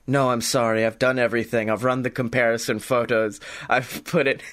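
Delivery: a hint of a gruff gumshoe giving the verdict; low PI verdict, matter-of-fact; hard-boiled PI. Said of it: "Scotty Moore, private investigator".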